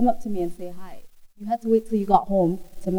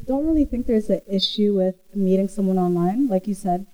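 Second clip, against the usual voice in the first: hoarse sick voice. Real, not acted. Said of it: "excuse my voice, I'm sick".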